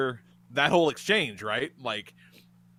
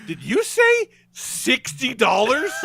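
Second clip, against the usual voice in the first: slow, high, louder incredulous question; aghast disbelief; 9 semitones higher, 5 dB louder, much slower than usual. Retold or imitated. Guest stunned by the breakfast price: slow, high disbelief. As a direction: stretch it out in stunned outrage.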